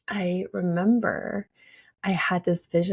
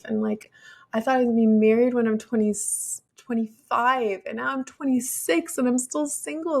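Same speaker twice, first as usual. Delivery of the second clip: upset rant; 5 semitones higher than usual. Retold or imitated. Retold breakdown, anxious complaint.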